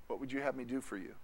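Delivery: quick soft question; hushed gentle question; Jesus asking. Acted. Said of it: "when he says to you".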